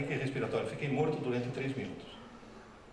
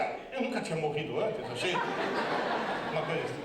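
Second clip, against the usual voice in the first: laughing. Retold or imitated. Laughing explanation.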